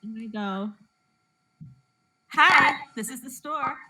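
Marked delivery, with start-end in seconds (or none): 2.3-3.8 bright, high phone greeting, acting out the job; happy store greeting. Store worker answering a customer's call, happy voice. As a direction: greet a caller in a happy, lifted customer-service voice. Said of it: "such a happy voice".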